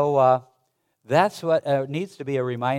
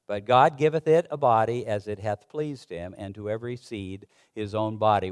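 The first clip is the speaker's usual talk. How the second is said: raised, solemn reading of King James verses; formal Bible reading to the congregation; scripture reading. Acted. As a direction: read it out like scripture from the pulpit. Pastor reads scripture aloud.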